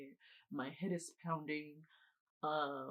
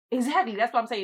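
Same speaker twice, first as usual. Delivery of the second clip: loud, higher, vindicated; much louder, insistent; emphatic agreement; 5 semitones higher, 13 dB louder than usual. Real, not acted. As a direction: hit it like you've been proven right.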